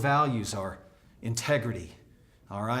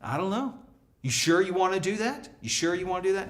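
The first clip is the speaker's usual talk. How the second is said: doubtful; 4 semitones higher than usual. Shown as a demonstration. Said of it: "the idea, as you communicate the core values".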